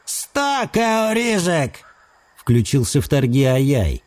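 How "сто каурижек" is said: high, slow creaky voice like a dry twig; creaky thin voice. A narrator's reading. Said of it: "Его голос был скрипучим и тонким".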